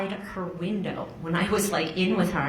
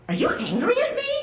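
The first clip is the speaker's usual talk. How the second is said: timid husband; faster than usual. Retold or imitated. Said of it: "And he was like".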